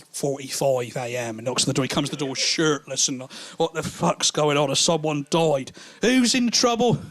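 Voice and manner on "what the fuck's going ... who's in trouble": woken mate asking who's in trouble; alarmed mate. Retold or imitated. Shirtless mate at the door.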